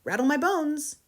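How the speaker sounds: high, loud parrot doing a ghost; a talking parrot's spooky imitation. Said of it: "imitation of a spooky voice".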